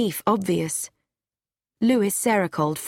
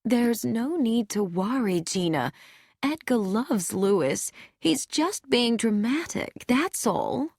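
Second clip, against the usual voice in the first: said softly; 3 semitones higher than usual. A narrator's reading. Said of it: "said softly".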